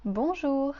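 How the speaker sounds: bonjour said slowly with a nasal on; slow model of bonjour; French bonjour. Shown as a demonstration. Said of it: "we say bonjour".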